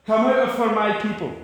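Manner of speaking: a caring, inviting summons; tender appeal. Shown as a demonstration. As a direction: plead lovingly with God's people.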